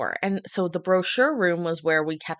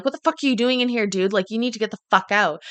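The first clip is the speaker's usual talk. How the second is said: hypothetical angry rant; 3 semitones higher, 5 dB louder, faster than usual. Pretend. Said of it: "didn't, like, get mad at him".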